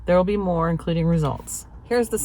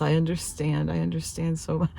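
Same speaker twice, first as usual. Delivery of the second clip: retold sympathy; 5 dB quieter than usual. Retells technician's sympathetic reply.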